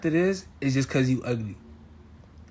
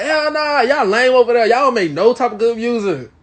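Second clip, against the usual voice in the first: mock argumentative; 5 semitones higher, 4 dB louder than usual. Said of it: "I'm only saying that so we could argue".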